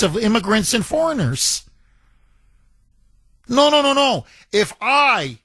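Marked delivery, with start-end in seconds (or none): 3.5-4.3 high mocking no no no; mocking denial. Host sneering at the left, mocking no no no. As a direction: brush the idea off with a sneer.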